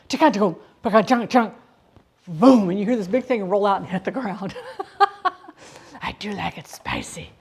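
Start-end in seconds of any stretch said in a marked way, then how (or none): 0.1-1.5 truck noise imitation. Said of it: "and it goes".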